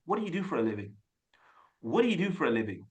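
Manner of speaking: easy, unstressed native English delivery; light and soft. Shown as a demonstration. Coach modelling Tom's English for learners, light and soft. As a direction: lightly run the words together, softly. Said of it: "look how light and soft".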